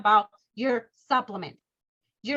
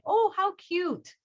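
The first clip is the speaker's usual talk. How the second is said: high, slow, drawn-out admiration; charmed cooing; 6 semitones higher, slower than usual. Retold or imitated. People seeing a child's handmade card, charmed cooing. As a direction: coo over something adorable.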